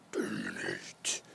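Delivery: "Terminate" breathed out as a low, slow whisper. Shown as a demonstration. Teacher contrasting the breath's end and start, whispering "Terminate". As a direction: let "Terminate" die away into a whisper. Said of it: "Terminate, create".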